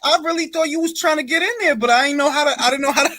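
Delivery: giggling through an apology; laughing. Real, not acted. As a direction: laugh while you apologize.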